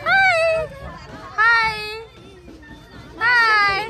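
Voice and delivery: cooing hello. Real, not acted. Greeting a small child.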